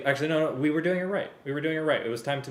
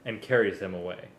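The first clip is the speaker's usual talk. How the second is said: story narration; 10 dB louder than usual. A narrator's reading. Reads Star Wars story aloud.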